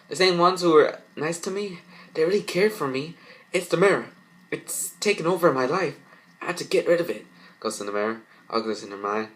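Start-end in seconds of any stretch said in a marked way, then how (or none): 0.1-7.3 high, louder urgent plea; distressed resolve. Acted. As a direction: push through it in alarm. Girl resolves to destroy mirror.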